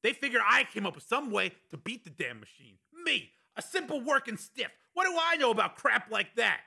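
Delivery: high, strained rant at reduced volume. A narrator's reading. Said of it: "continued at a slightly lower volume".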